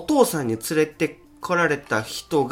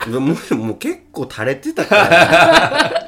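slow, louder, laughing through it; barely holding in laughter; 6 semitones higher, 8 dB louder, much slower than usual. Real, not acted. Laughing while telling funny story. (笑いながら)

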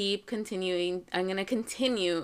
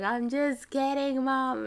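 son's giggly reveal, higher and drawn out; laughing confession; 6 semitones higher, slower than usual. Retold or imitated. Son admits the prank to Mom, laughing confession. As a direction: act out a kid owning up to a prank, pitched up. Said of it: "he starts laughing".

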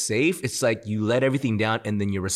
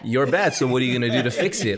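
mock condemning; 3 semitones higher, 3 dB louder, faster than usual. Mocking a condemning God.

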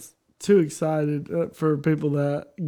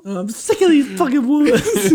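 mock whine; 8 semitones higher, 3 dB louder than usual. Joining the mock complaint, laughing.

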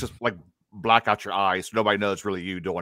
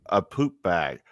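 ordinary talk, nothing marked

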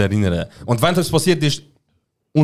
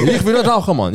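much higher, pleading denial; mock protesting innocence; 8 semitones higher than usual. Son swearing he will not smoke, mock pleading. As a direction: protest it high, playing the innocent.

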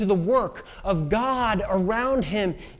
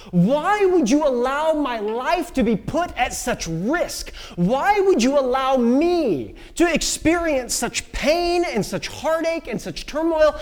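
higher, imploring cry to God; anguished plea; 5 semitones higher than usual. Acted. Elijah in the wilderness asking God, anguished pleading. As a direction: plead upward, stretching the key words.

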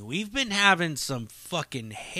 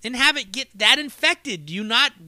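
higher, mock-outraged grilling; incredulous scolding; 5 semitones higher than usual. Telling Adam off about his elbow, incredulous. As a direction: pile on the disbelief. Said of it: "And then I told him, like".

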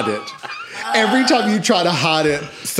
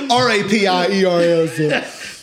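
spelled out slowly; 3 semitones higher, slower than usual. Shown as a demonstration. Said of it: "Spell it one more time".

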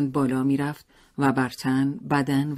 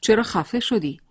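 menacing, louder, pitched up; growled demand; 8 semitones higher, 4 dB louder than usual. A narrator's reading. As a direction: snarl it at his wife. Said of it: "غرشی کرد و گفت". (غرش تهدیدآمیز شوهر خشمگین)

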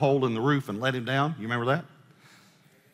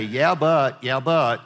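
mocking doubter; 4 dB louder, much slower than usual. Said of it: "And don't say".

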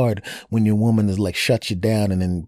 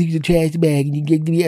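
put-on girlfriend's retort; 8 semitones higher than usual. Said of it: "And she goes".

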